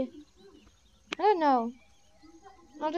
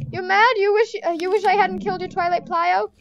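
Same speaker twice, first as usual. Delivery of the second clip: cocky trash talk, louder; taunting; 3 semitones higher, 4 dB louder than usual. Real, not acted. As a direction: taunt the other team like a bully. Taunting enemy players.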